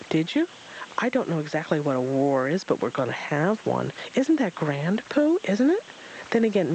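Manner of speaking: put-on high, eager child chatter; a small joey babbling excitedly at Pooh; chattering Roo.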